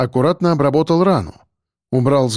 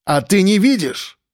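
barking; 5 semitones higher than usual. Acted. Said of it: "рявкнул Шульгин".

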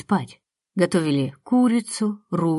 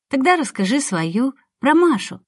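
put-on little girl voice; 5 semitones higher than usual. Little girl asks again.

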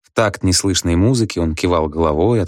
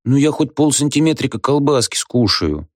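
wheedling; 8 semitones higher than usual. A narrator's reading. Budkin wheedles.

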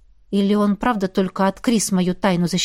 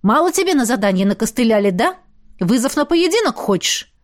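picking a fight; 3 semitones higher than usual. Acted. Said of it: "Продолжал наезжать на неё".

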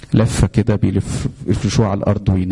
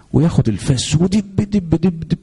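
axe blows; 9 semitones higher than usual. Retold or imitated. Imitating axe blows on rock.

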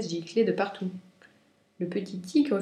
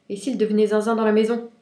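worried; 3 semitones higher, 8 dB louder, faster than usual. A narrator's reading. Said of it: "Lapin prit peur".

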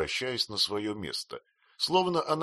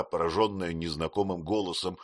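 ordinary delivery

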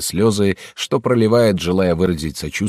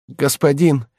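оклик; 7 semitones higher, slower than usual. Acted. Слуга будит хозяина.

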